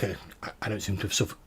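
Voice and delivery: spluttering with water in mouth. Acted. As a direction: talk while spitting out water. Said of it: "and he spits out a bit of water".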